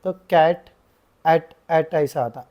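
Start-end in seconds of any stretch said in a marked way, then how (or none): 0.0-0.7 कैट with an open ae vowel, said a bit louder; ae sound. Shown as a demonstration. Teacher showing the ae vowel in a word. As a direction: open the mouth wide on the ae in कैट. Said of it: "ए बोल के आता".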